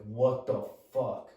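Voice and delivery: slow, drawn-out retold disbelief; stunned. Dad waking to a crouched stranger, stunned. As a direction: draw the words out as if stunned. Acts out dad's shock at crouched figure.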